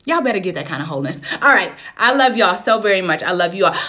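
ordinary talk, nothing marked

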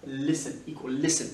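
"listen" pronounced without any T sound; silent T. Shown as a demonstration. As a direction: drop the T each time in "listen". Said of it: "Le T ne se prononce pas".

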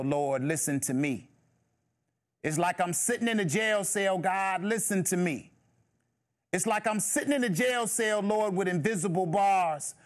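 impassioned spoken-word plea to God, building; rhythmic, despairing testimony in a desperate young man's voice; young man's prayer. Acted. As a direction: cry out to the Lord from your knees. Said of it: "And he says".

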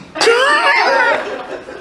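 a sudden high-pitched laugh; high burst of laughter. Real, not acted. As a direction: break into a high real laugh. Preacher laughing at own point.

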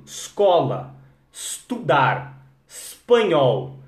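escola, estudar, espanhol. said slowly, each starting on S. Shown as a demonstration. Teacher drilling students to start each word on S. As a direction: drop the E, begin on S each time. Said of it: "Tira o E".

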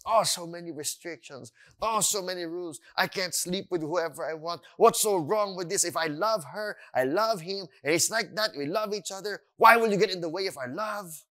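lightly acted indignant protest; imitating an aggrieved rule-hater; mock complaint. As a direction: grumble at the rules, building into a challenge. Voices people complaining about God's rules.

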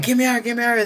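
imitating his own panic; panicked plea. Panicking during near-death vision.

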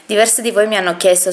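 breathless, heavy breathing. Real, not acted. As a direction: talk while catching your breath. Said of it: "scusate il fiatone".

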